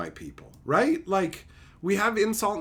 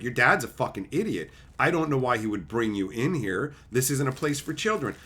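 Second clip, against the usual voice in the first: low, matter-of-fact insult; deadpan put-down; 7 semitones lower, 4 dB quieter than usual. Retold or imitated. Streamer answering the kid about dad, low deadpan. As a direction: drop low and tell the kid plainly. His blunt reply to the kid.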